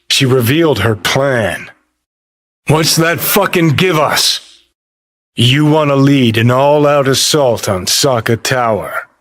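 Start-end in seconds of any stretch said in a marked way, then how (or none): 2.7-8.4 higher-pitched exasperated demand; irritated challenge, pitched up. Acted. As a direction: demand it, fed up with the plan. Objects angrily to her plan.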